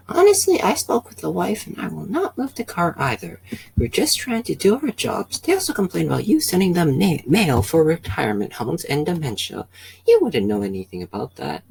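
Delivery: police officer telling the driver he won't move the car; odd officer voice. Acted. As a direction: play the second officer in a silly high voice. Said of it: "I don't know why I used that voice".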